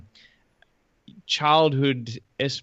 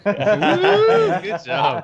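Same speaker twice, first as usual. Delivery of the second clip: excited praise; 6 dB louder than usual. Real, not acted. Cheering the Norwegian reply.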